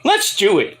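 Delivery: lightly put-on rock frontman voice; a hint of a rock singer's impression. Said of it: "Oh, Paul Stanley's like".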